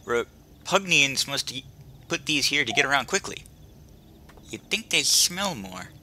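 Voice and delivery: lightly voiced kid with a retainer; silly kid character voice. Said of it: "I don't know why I'm giving him that voice".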